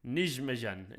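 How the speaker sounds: "Nijmegen" with zh sounds, NEEZH-muh-zhen; trying a pronunciation. Shown as a demonstration. Streamer testing a Dutch name, trying "Nijmegen" as NIZH-muh-zhen. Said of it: "Is that how you pronounce it?".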